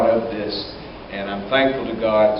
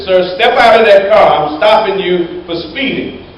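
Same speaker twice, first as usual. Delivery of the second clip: barked police command, raised; stern trooper order; 6 semitones higher, 5 dB louder than usual. Acted. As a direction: order him out of the car like a cop. Trooper pulls over a speeder.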